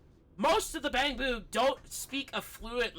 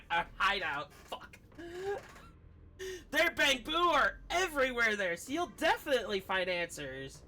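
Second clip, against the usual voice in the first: higher, bouncy reassurance from a little clerk; cheery robot shopkeeper; 4 semitones higher than usual. Acted. Streamer reading the shopkeeper's reassurance, cheery and higher. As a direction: reassure the customer like a chirpy shop bot. Reads Bangbu shopkeeper lines in voice.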